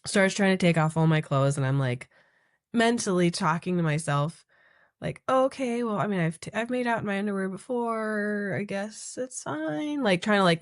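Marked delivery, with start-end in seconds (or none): 5.3-10.0 higher, hesitant self-talk; retold doubtful reassurance; uneasy self-persuasion. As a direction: talk yourself into it, stretching the end. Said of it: "make it okay".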